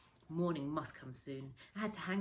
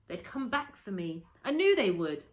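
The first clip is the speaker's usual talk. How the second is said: sudden joyful certainty; 3 semitones higher, 10 dB louder than usual. A narrator's reading. Rescue arrives, sudden joy.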